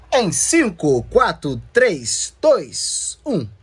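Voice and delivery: loud numbers, each falling in pitch; dramatic countdown. Pretend. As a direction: count down loudly, pausing after each number. Dramatic countdown before switching on. (contagem regressiva enfática)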